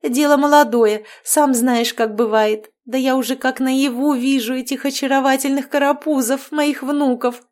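bubbly overbearing mother-in-law chattering; cheerful witch. Acted. Marianna chattering on. (ведьма щебечет слегка выше обычного)

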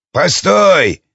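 high-pitched hail; calling out. A narrator's reading. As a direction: call after someone to stop them. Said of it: "окликнул Аид". (окликая уходящего)

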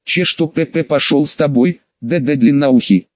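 stammering through chattering teeth; shivering and stuttering from cold. Acted. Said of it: "нервно захихикал".

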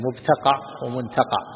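مبتقع as "mubtaqaʕ", then منتقع as "muntaqaʕ", measured; variant forms. Shown as a demonstration. Sheikh listing word variants, مبتقع with b, منتقع with n, slowly. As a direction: slowly sound out مبتقع with b, ومنتقع with n. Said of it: "فيه ثلاث لغات".

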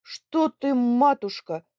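loud, slow disbelief; old man stunned by the news; astonished. Acted. (изумлённо)

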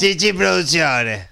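slow, careful brand read; announcer voice. Shown as a demonstration. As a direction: repeat the name like an announcer. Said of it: "dígalo así, mire".

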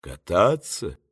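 low, soft, unhurried phone voice; a calm stranger answering from far away. A narrator's reading. The voice on the phone answers Varenukha, low and soft. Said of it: "трубка".

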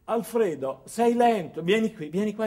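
a mild imitation of a demanding boss calling him over; lightly voiced bossy manager, sharp and impatient; bossy scolding boss. Boss Sofia scolding employee.

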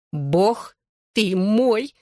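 astonished squeak. A narrator's reading. Friend hears it was on his bed, squeaking. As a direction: squeak it word by word in shock. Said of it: "пискнула Клэр".

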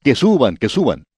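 lightly mock the other prophets' cheer; a bit sarcastic. Micaías joining the false prophets, mildly sarcastic. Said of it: "diciendo un poco sarcásticamente".

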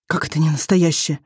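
ordinary delivery

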